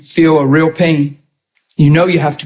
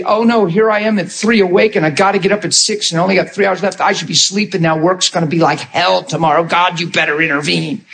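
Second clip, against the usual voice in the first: mock grumbling in bed; hurried, complaining run of grumbles; mumbled grumbling. Preacher mimicking a sleepless believer complaining to God, grumbling. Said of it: "you mumble and grumble in your bed".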